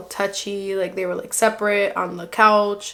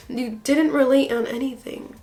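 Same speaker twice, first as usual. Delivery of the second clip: whispered aside; 2 semitones higher than usual. Real, not acted. Vlogger mocking Bartise to viewers, breathy whisper. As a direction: whisper it, voiceless, like a secret jab.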